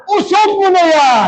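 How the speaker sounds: preacher's rallying shout. Real, not acted. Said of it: "Pakilakasan mo sa Tagalog".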